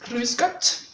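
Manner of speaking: Grüß Gott with rolled R, Bavarian style; a lightly done Bavarian Grüß Gott, R rolled. Shown as a demonstration. Teacher admitting a weak Bavarian accent on Grüß Gott. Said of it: "ils roulent beaucoup les R".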